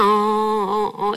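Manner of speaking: imitated drawn-out moan of exhausted crying; worn-out vocal sob without tears; dry tearless wailing. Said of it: "이렇게 소리만 내고 눈물도 안 나고".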